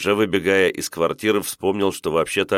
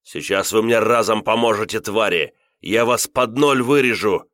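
raised-pitch rage, building to the end; enraged, higher-pitched outburst; furious threat; 4 semitones higher than usual. A narrator's reading. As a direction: threaten them in a mounting fury. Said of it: "Я был в таком бешенстве".

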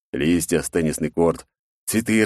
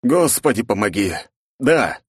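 desperate plea; 5 semitones higher, 3 dB louder than usual. Acted.

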